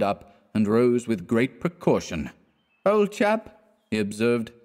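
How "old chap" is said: put-on much higher, sloppy sentimental drunk; maudlin drunk. A narrator's reading. Drunk Clifford grows maudlin to his friend, high tipsy. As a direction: get weepy and tipsy.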